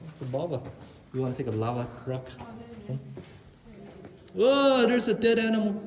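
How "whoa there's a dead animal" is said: fake fright. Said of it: "just kidding".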